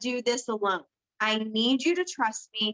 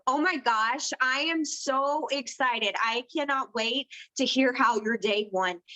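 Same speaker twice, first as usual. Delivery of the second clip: excited voice message. Shown as a demonstration. Coach demos a voice message to a new promoter, warmly excited. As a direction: sound genuinely thrilled for her. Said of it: "she was able to hear the difference".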